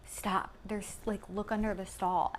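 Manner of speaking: very soft, barely voiced urgent warning; mouthed warning. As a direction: hush them urgently, almost without sound. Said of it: "mouths that to us".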